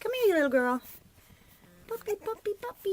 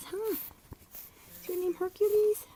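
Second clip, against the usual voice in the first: puppy talk; 11 semitones higher, 4 dB louder than usual. Real, not acted. Owner asking a puppy its name, high. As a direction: ask it up high.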